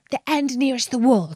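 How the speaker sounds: fast, sharp repeat of the bird's words; quick repeat. Acted. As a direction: throw back his words, fast and pointed. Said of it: "you said".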